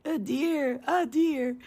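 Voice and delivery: a hint of a happy toddler saying A deer, a deer; lightly imitating a delighted child. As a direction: repeat it like a child clapping at a deer. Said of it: "you kept repeating".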